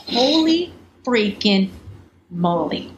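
slow, drawn-out astonishment; stunned disbelief. Retold or imitated. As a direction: stretch each word in retold amazement. Retelling own stunned reaction to the cheque.

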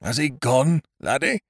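hoarse, muffled through a letterbox. A narrator's reading. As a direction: rasp it through the door slot. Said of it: "A hoarse voice spoke through the letterbox".

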